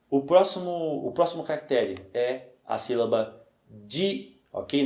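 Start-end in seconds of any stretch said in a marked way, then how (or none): 3.7-4.4 "di" with a hard d sound, not "ji"; teacher sounding out "di"; correct syllable di. Shown as a demonstration. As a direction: model "di" as a clear single syllable. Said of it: "Não é ji, é di".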